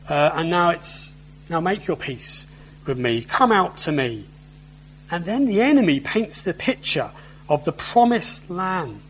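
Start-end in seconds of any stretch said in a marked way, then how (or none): 1.5-4.2 coaxing shift. Acted. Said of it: "the tone sort of changes".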